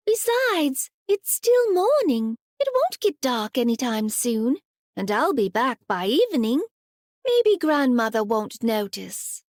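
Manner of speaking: put-on high child's voice, talking herself into courage; a small girl reassuring herself; little girl. Little girl to herself on the way into the woods, lightly voiced.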